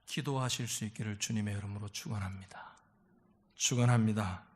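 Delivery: very low, solemn benediction; hushed low formula, firmer on the repeat; pastoral blessing. Real, not acted. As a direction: pronounce a wish of blessing in a low monotone.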